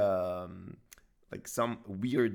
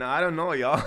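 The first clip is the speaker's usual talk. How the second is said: lightly kept Southern US twang, louder; southern accent; 4 semitones higher, 7 dB louder than usual. Acted. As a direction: still half in a Southern US accent, laughing it off. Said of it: "I went all southern".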